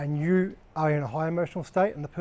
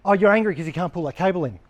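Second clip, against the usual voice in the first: blunt; 2 semitones higher, 4 dB louder than usual. Shown as a demonstration. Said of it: "you don't go up to them and say".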